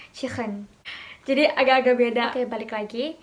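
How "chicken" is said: quieter "chicken" with a Liverpool scraped k; Liverpool accent. Shown as a demonstration. Teacher repeating the Liverpool example for learners, Liverpool accent. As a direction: Liverpool "chicken", the middle consonant softened like "chikhen". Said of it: "contohnya Liverpool accent itu".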